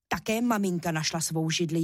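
usual speaking voice

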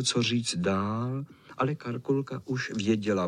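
plain reading voice

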